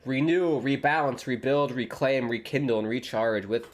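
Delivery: a hint of a New Age advert voice, fading at the end; mock ad read. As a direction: read it like a half-joking kombucha commercial. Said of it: "New Age advertisement".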